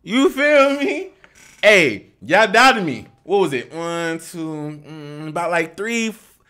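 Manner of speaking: loud, high gloating to the chat; happy and loud. Real, not acted. Streamer proudly showing off his hair to doubters, excited loud. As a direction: shout it, thrilled your hair finally hangs. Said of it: "I'm sorry for being so loud. I'm just happy".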